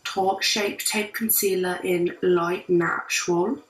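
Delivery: put-on amateur British accent, chatty tutorial style; casual imitation British accent, trying your best. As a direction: attempt a British accent while hosting a makeup tutorial. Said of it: "doing the entire tutorial in a British accent".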